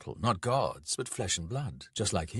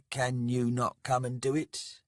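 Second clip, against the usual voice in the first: raised, sincere question; without irony; 4 semitones higher than usual. A narrator's reading. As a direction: ask it in all earnestness. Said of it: "without any irony".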